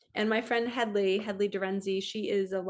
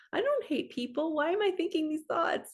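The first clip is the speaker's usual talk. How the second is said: pitched up, baffled self-quote; incredulous; 7 semitones higher than usual. Retold or imitated. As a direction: replay your own disbelief at the thoughts. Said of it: "I'm like".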